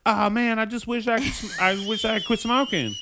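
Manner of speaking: put-on playfully whining as the old smoker; mock old man. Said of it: "He's like".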